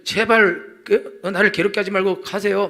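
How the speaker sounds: a touch of pleading possessed man; mildly begging, slow at first; demon-possessed plea. Retold or imitated. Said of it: "귀신 들렸을 때는". (귀신 들린 사람의 약한 애원)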